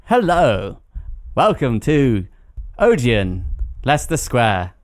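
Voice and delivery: slow, spaced-out recorded-message voice; hammed-up automated cinema line; automated cinema phone voice. Shown as a demonstration. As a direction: cinema phone announcer, pauses between each phrase. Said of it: "Do your best one".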